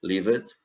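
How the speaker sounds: "Lived" with the ED said as D; final D sound. Shown as a demonstration. Teacher contrasts word endings for learners, "Lived" ending in D. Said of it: "som de D".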